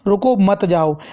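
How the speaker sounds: brief break after रुको, then मत जाओ together; pause after रुको. Shown as a demonstration. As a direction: set रुको apart from मत जाओ. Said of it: "लेकिन इसमें". (रुको के बाद हल्का ठहराव)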